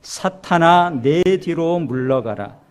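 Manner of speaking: slow, loud commanding rebuke; Jesus rebuking Peter, slow and forceful; stern rebuke. Acted. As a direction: drive Satan away with each word. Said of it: "베드로를 꾸짖어 이르시되".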